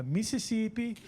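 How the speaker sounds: put-on Mississippi in a Brazilian northeastern accent. Comic tells the crowd where he's from, Brazilian northeastern accent. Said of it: "with a Brazilian northeastern accent".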